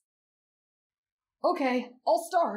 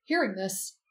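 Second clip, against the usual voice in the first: story narration; 3 semitones lower than usual. Acted. Reads story aloud.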